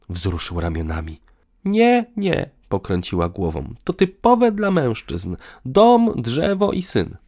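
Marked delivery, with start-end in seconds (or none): 1.7-7.2 losing patience. A narrator's reading. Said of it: "Ona też traciła nerwy".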